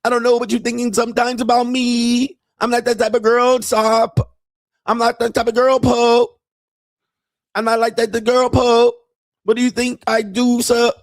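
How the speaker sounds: put-on high, broken-English Thai girlfriend voice; mock Thai accent. Mocking Thai girlfriend asking her man for money in a high accented voice. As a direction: imitate a Thai bar girl pleading for money.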